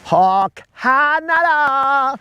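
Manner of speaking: high, slow drawn-out howl of a word; long mock wolf howl in a Canadian voice; werewolf howl. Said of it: "but his howl is".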